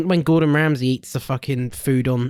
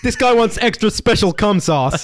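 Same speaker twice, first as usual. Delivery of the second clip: higher-pitched mock American accent, laughing; 6 semitones higher, 3 dB louder than usual. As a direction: put on a jokey American accent. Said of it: "did an American accent".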